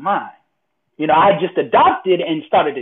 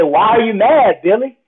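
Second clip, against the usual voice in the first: higher, louder self-challenge; insistent question; 5 semitones higher, 5 dB louder than usual. Retold or imitated. Speaker's mind challenging him while heated, insistent. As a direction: confront yourself, pressing the question.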